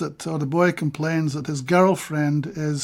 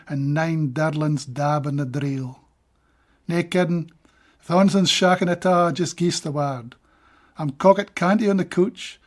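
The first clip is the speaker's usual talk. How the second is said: measured recital of a Scots verse; steady Scots poetry recital; poem reading. Acted. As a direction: read it like a poet giving a reading.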